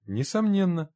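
high-pitched, soothing agreement; reassuring. A narrator's reading. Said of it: "успокаивающе сказал Генри".

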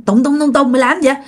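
mildly urgent calling of a friend's name. Retold or imitated. Guard trying to wake his moaning friend, retold calling out. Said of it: "Bạn mới kêu".

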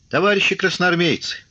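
high, thin-powered call to the troops; weak appeal. A narrator's reading. Commissar appealing to mutinous soldiers, weak high call. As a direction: call out high, without much force. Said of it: "слабо зазвучал голос комиссара".

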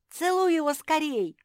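громко и высоко, во весь голос; вопит, торопя подругу; вопль. A narrator's reading. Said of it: "завопила Мафи". (громкий высокий вопль)

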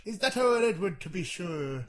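hammed-up Northern Irish granddad; Northern Irish accent. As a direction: lay on a mock Irish lilt. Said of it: "It's Northern Irish".

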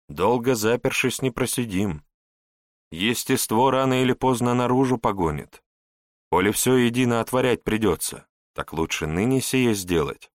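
a hint of a wise old advisor; measured sage. Wise Saracen advises prince.

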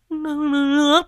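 high, loud pleading for water; gasping call. Acted. Quýt Nẫu croaking for water after the pipe, high and urgent. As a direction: call out desperately, throat burning.

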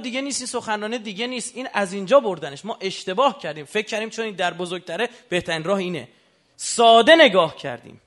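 loud, high sermon cry; fiery preaching. Acted. Preacher crying out to the congregation in full force. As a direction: thunder it from the pulpit, slowing at the end.

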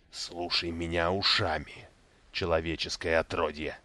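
menacingly gentle. Acted. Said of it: "приговаривал ласково Мурдрал".

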